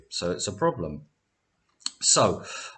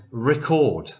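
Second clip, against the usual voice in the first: "record" with the stress on CORD; verb stress on second syllable; 3 semitones higher than usual. Shown as a demonstration. Teacher shows students the contrasting heteronym, "record" stressed on second syllable. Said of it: "can you hear the difference".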